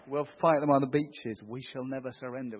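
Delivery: a loud, rousing wartime orator; hammed-up Churchill broadcast; Churchill impression. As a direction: declaim it like Churchill rallying the nation. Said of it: "or Churchill".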